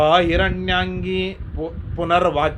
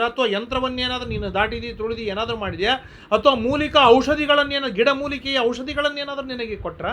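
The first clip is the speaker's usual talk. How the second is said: anxious mother questioning; 6 semitones higher, faster than usual. Acted. Bakula guessing what frightened Srinivasa, anxious pleading questions.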